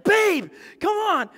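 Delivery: high, loud, slow "Babe, come on"; hammed-up pleading; drawn-out plea. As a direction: beg her half-jokingly to be okay. Pleading with injured Holly.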